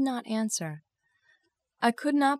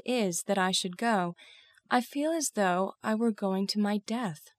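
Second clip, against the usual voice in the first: understated heartfelt confession; earnest, with restrained emotion; deep feeling. Acted. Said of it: "I spoke with deep feeling".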